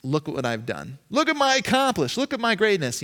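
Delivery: a puffed-up braggart; boastful. Pretend. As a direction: show off your accomplishments. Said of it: "self-importance".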